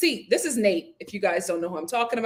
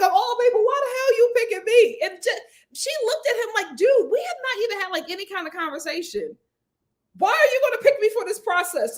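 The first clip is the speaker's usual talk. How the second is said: incredulous; 10 semitones higher than usual. Retold or imitated. Madeline retold, rejecting Nate: high incredulous voice. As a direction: play it as baffled and put out.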